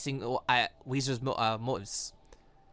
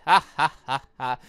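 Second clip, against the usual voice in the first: staged ha ha ha, a touch louder; mock villain laugh; 2 semitones lower, 5 dB louder than usual. Reading the villain's laugh in the game, lightly hammed. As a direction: read the laugh out as a smug villain.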